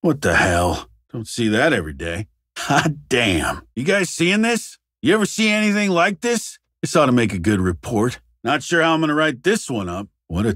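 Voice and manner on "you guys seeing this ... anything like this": high, rising incredulous questions; amazed. Acted. Investigator asks colleagues about a strange sight, amazed. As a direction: pitch it up in astonishment.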